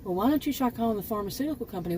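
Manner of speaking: quick, lightly voiced pharmacist brush-off; mocking pharmacist. Mimicking the pharmacist who passed her along, fast mock. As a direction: rattle off the pharmacist's dismissive line. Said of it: "have a pharmacist say".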